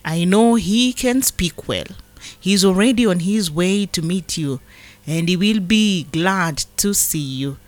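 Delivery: measured, solemn Bible reading; scripture reading. Acted. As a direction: read the verses as God's word to the flock. Reads scripture aloud.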